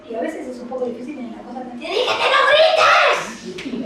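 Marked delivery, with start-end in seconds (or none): 1.7-3.8 high, loud parental yell, acted out; mock angry shout. Parent yelling at a child to stop yelling, mock angry. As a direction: burst into a hammed-up scolding shout.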